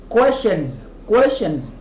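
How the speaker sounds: "Questions" ending in a voiced Z; final S as Z. Shown as a demonstration. Teacher explaining English plurals, final S as Z. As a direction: buzz the last S of "Questions" as Z. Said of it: "ça se prononce comme Z".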